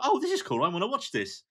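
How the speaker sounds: a quick burst of glee; mock delighted Fanny. Fanny watching the standoff, giddy. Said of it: "She's like".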